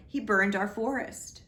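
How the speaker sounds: the king accusing the dragon; indignant cry. Acted. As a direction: point the blame hard. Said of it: "he cried".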